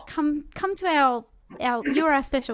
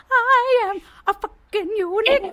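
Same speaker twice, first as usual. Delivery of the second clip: proud declaration; 9 semitones higher, 6 dB louder than usual. Pretend. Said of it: "it's like".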